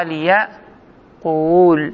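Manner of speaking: ليقول drawn out as li-ya... quuul; resulting form. Shown as a demonstration. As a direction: stretch ليقول slowly, long vowel after a break. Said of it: "فصار".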